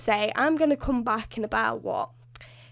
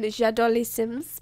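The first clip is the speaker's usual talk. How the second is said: slow French "J'adore les Sims" with a rising end; French phrase; slower than usual. Retold or imitated. Pitching a joke video, slow mock French. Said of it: "a whole Creator Sim video going".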